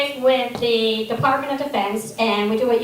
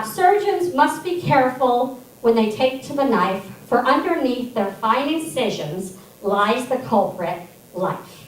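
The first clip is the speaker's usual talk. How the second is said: reciting a poem, fading at the end; poem recital. Shown as a demonstration. Reciting the stanza to the audience, poem recital. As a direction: recite it like a stage line. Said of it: "I only can remember one little stanza".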